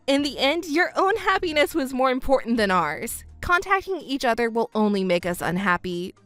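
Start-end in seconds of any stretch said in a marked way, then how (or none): 3.4-6.1 low, composed farewell; cool finality. Acted. Stepdaughter cutting ties with her mother, cool and final. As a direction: end it calmly and firmly.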